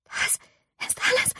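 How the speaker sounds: starts soft and breaks into a high squeak; halting, squeaky denial; panicky self-talk. Acted. May talks to herself at the mirror, panicky denial. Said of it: "sagte May zu sich selbst".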